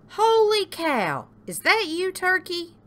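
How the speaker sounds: high, loud amazement; astonished pig. A narrator's reading. Pig spots disguised Turkey, high amazement. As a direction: exclaim in high-pitched astonishment.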